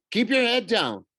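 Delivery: high, loud warning; urgent order. A narrator's reading. Girl in hiding warns her friend to duck, urgent.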